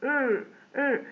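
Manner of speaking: long sustained English R for "ر"; tongue-held R. Shown as a demonstration. Teacher demonstrating letter R, long held "ر". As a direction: hold "ر" with the tongue hung up. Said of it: "لساننا متعلق فيه".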